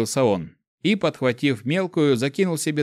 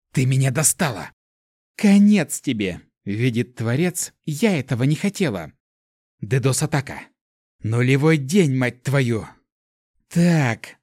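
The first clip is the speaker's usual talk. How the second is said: cursing attack; slower than usual. Acted. Elemental launches hacker attack, cursing.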